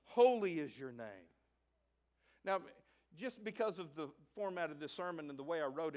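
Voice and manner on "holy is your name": lower, hushed and reverent; lower, reverent prayer to a holy God. Shown as a demonstration. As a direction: speak it with awe. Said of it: "you come in reverently saying".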